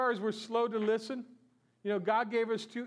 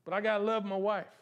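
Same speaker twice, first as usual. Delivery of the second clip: grudging husband. Retold or imitated. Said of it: "You just".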